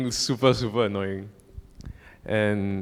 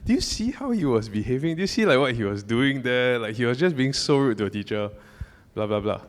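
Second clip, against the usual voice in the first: upset and defensive; 3 semitones higher than usual. Retold or imitated. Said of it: "get very upset and defensive".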